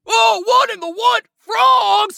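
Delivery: a dragon yelling in fear at frogs; scared of frogs. Acted. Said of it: "It looks like King Dragon is afraid of frogs".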